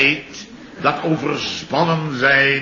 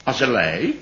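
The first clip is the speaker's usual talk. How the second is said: mock pity; 7 semitones lower, 7 dB quieter than usual. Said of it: "ik zeg".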